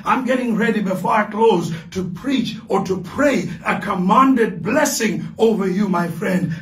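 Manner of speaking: preaching. Acted. Preacher builds toward prayer.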